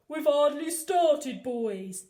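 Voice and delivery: slow, loud, knowing policeman voice; a calm threat to the gang; confident Officer Pugh. A narrator's reading. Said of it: "he said".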